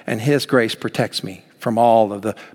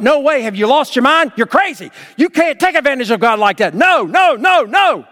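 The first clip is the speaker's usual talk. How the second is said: high, loud, rising to a shout; outraged, can't believe anyone would try it; very emphatic; 11 semitones higher, 4 dB louder than usual. Retold or imitated. Paul rebuking the church at Rome, emphatic shout. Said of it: "what Paul does is very emphatic".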